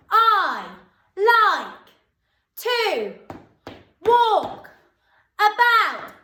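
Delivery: loud, high classroom shout. Shown as a demonstration. Teacher shouting the sentence to show pupils. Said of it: "I want to see whether you can shout".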